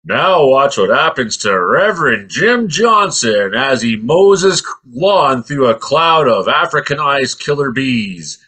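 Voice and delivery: slow, dramatic documentary narrator voice; mock the show's grave announcer. Show's narrator introducing the bee attack, slow and dramatic. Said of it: "it's like".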